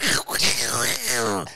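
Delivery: imitated wordless duck gabble; Donald Duck quacking. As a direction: squawk nonsense like a cartoon duck. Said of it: "You just went".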